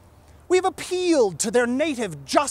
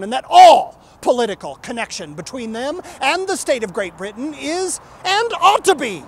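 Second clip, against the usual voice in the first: rising declamation; 2 semitones higher, 7 dB louder than usual. Acted. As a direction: build to a ringing loud climax, each clause bigger. Climax of reading the Declaration.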